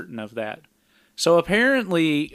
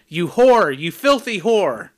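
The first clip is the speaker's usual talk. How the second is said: loud, raised outburst of insults; mock yell; 4 semitones higher, 6 dB louder than usual. Recap host quotes Jeremy catching the pair in bed, mock yell. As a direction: yell it out like an accusation, hammed up. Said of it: "He yells out".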